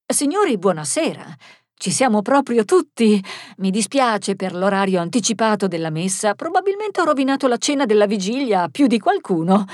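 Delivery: lively, projected welcome; lifted, jolly address to a group; jovial, amused. Acted. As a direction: greet everyone with amused good cheer. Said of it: "disse ridendo".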